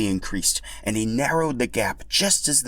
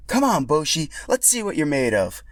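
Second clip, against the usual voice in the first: higher, teasing dare; playful challenge; 7 semitones higher than usual. Acted. Yoshi inviting Boshi to a rematch, playful and higher. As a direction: egg him on.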